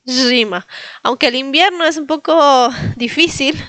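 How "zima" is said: Gima as ZHEE-ma with a smile; said smiling. Shown as a demonstration. Teacher reminding students to smile, spread zh. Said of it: "No se olviden de sonreír".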